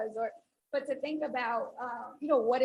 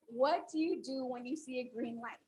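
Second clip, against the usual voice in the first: softer, unhurried and clear; calm repeat; 7 dB quieter than usual. Shown as a demonstration. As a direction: ask it again, calmly this time. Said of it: "I'll ask it again".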